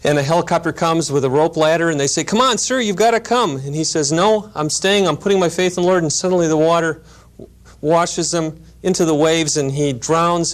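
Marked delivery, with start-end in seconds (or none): 2.2-3.6 high-pitched urging at normal volume; urgent pleading. Retold or imitated. Rescue crew begging a stranded man on a rooftop, urgent pleading. 4.1-6.0 higher-pitched, mildly stubborn refusal; insistent refusal. Retold or imitated. Stranded man turning down the helicopter rescue, insistent refusal.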